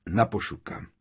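restrained, grave toast; solemn toast. A narrator's reading. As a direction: raise a toast to the fallen. Bill raises a toast, leading.

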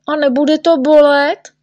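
high, rising anxious question; worried question. Acted. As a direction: ask nervously, pitch climbing. Patient worries about the iodine.

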